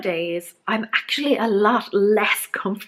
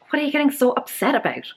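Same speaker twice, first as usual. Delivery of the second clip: fast, higher, patronising mock question; mocking condescending question; 4 semitones higher, much faster than usual. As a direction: rattle it off like a smug know-it-all. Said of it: "Or the worst".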